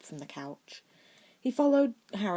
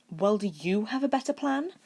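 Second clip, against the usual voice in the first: grumpy; 5 semitones higher, 5 dB louder than usual. A narrator's reading. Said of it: "he asked grumpily".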